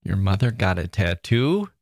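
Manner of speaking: tattoo lifted, rising end; stress on tattoo. Shown as a demonstration. Host rereads the listener email stressing tattoo. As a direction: lean on tattoo in disbelief. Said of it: "emphasizing different parts".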